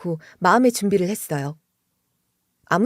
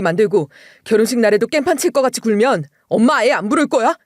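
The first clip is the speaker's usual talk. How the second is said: raised, insistent voice; husband shouting; 3 dB louder than usual. Retold or imitated. Husband yelling at his mother to stop her, raised voice. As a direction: push back hard at your mother. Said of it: "소리치면서 말리는 거예요".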